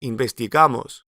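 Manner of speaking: "investigamos" stressed on -GA-, in-ves-ti-GA-mos; stress on the ending. Shown as a demonstration. Teacher to learners, shifted stress. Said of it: "shift the stress to the ending".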